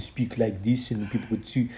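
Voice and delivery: putting on a French accent. Shown as a demonstration. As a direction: speak English with a hammed-up French accent. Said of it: "have the ability to talk in a different accent".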